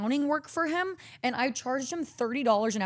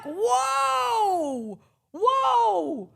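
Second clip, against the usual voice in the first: high loud retort; 10 semitones higher, 4 dB louder, much slower than usual. Retold or imitated. Her retort to the family.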